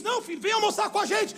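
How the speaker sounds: high, lively waving away of an apology; insistent invitation. Retold or imitated. Father invites the visitor to lunch, insistently. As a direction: imitate a host urging a guest in.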